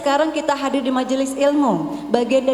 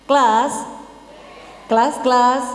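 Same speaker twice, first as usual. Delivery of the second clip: mock teacher call. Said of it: "kita begini".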